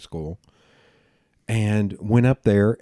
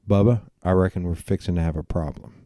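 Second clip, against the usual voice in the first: put-on Southern accent; 3 semitones lower, faster than usual. Telling off a stranger in Times Square, Southern-accented. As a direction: lay on the Southern accent, low-key. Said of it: "I can kick on my Southern accent".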